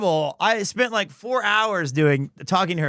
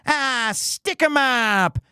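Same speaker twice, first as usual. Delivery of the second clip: robber voice; 4 semitones higher, slower than usual. Retold or imitated. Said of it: "some robbers come and they go".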